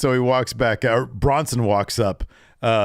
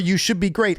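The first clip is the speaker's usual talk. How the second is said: mock Cena taunting; 6 semitones higher than usual. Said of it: "he says".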